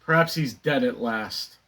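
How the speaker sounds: understated stage aside; theatrical Moon monologue. Acted. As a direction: drop down from the outburst into a private thought. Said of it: "the character Moon".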